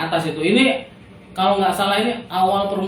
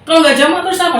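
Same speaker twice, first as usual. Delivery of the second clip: much higher, incredulous retort; indignant retort to the official; retold indignant retort; 12 semitones higher, 4 dB louder than usual. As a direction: throw the question back at him. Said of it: "saya bilang gitu".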